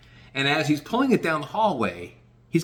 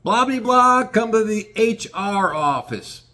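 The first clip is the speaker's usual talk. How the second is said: mock intercom page; 7 semitones higher, slower than usual. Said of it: "I hear on the intercom".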